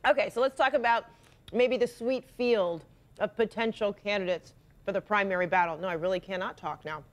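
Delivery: talking with a mouth full of chocolate; chewing between words, mouth full. Real, not acted. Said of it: "now I can't talk with my mouth full".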